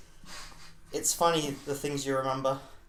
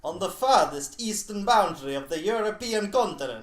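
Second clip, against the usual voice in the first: louder, higher epic trailer voice; mock trailer narrator; 5 semitones higher, 7 dB louder than usual. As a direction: announce it like a film trailer.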